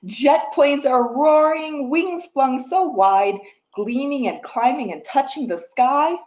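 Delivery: rhythmic picture-book reading; reading to a toddler. Acted. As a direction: read the rhyme to little ones. Reads picture book rhyme.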